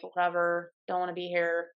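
low, bored mumble; bored, low "whatever" voice. Retold or imitated. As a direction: sound like you'd rather leave. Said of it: "usually I'm like".

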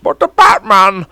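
bad impression, and it shows; half-hearted Vader attempt; Darth Vader impression. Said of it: "I did Darth Vader first".

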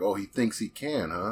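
put-on light New York accent; mock New Yorker. Player voicing a New Yorker calling him out, light New York accent. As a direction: imitate a sceptical New Yorker. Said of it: "anybody from New York who's like".

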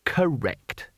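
ordinary delivery

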